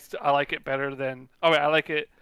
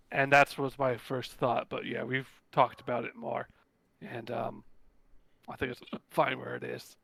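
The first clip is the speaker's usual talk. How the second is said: losing voice, hiccuping; hoarse with hiccups; 3 semitones lower, 6 dB quieter than usual. Real, not acted. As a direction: talk through hiccups with a tired voice. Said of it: "I'm both losing my voice and have the hiccups".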